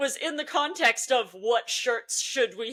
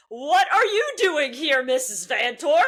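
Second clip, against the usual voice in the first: higher, louder startled greeting; retold surprise at an unexpected visitor; playfully taken aback; mock surprise; 3 semitones higher, 5 dB louder than usual. Reacting to unexpected notification.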